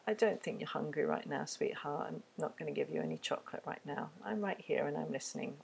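soft, steady and kind; calm loving limit. Shown as a demonstration. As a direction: set the limit gently but firmly. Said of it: "I would probably say something like".

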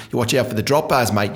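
light attempt at an Australian accent. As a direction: warn a tourist in a loose Australian accent. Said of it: "Is that a good accent?".

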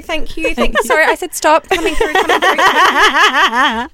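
pretend usher. Pretend usher pushing through crowd.

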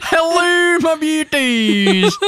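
very high, drawn-out silly Dutch greeting; ridiculously un-scary Dutch villain; Davy Jones gone Dutch. Pretend. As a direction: squeal it in a mock Dutch accent. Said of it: "Davy Jones would have sounded ridiculous".

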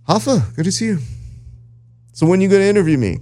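high, eager imitation of John; mock John's voice. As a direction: lightly play the eager friend. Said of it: "and he goes".

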